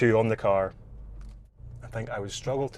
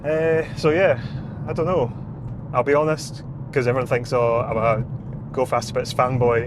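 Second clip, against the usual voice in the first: loud and high over engine roar; shouting to be heard in the car; shouting over machinery; 3 semitones higher, 4 dB louder than usual. Real, not acted. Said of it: "I'm shouting over the noise".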